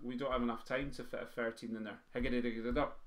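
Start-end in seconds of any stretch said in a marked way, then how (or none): 2.1-3.0 rattled-off drum syllables; too-fast drum roll. Shown as a demonstration. Teacher showing a thirteen won't fit, too-fast drum roll. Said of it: "It's far too fast".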